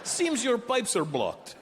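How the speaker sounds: high giggling Russian plumber, slow; giggling Russian accent. Retold or imitated. Plumbers tease their client about his pipes, high giggling Russian accent. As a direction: tease him through the giggles like a little kid. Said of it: "giggle like little kids".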